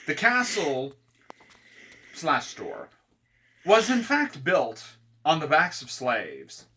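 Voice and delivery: measured read-out of comic ad copy; mock store pitch. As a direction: sell the horrors as store features.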